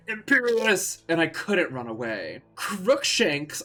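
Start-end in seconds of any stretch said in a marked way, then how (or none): 0.1-1.0 loud, high spell cast; shouted spell. Acted. Voldemort casting a curse at Ebony, a loud shout. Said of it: "Voldemort shouted". 2.6-3.6 high, raised spell; shouted spell. Acted. Ebony shouting a spell at Voldemort, raised voice. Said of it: "I shouted at him".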